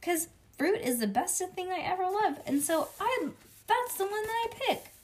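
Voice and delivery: put-on high, gushing child's cheer; hollered. A narrator's reading. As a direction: rave in a high, delighted kid voice. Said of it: "I hollered".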